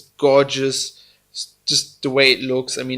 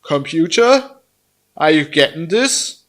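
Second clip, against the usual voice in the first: talking like a computer; 4 semitones higher, 5 dB louder than usual. Pretend. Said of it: "I just have to talk like a computer".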